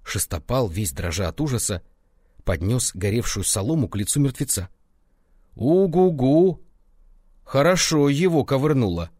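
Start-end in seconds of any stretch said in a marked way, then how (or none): 5.5-9.1 cool-headed. A narrator's reading. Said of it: "хладнокровно продолжал Соцкий".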